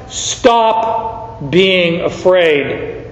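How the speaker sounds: slow and gentle; tender reassurance. Acted. Jesus reassuring the frightened fisherman, tender and slow. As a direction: soothe him slowly.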